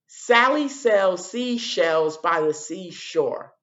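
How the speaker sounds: very slow, careful tongue twister; slow demo. Shown as a demonstration. Teacher repeating the tongue twister slowly so kids hear it. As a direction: stretch each s word out. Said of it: "I'm gonna do it again".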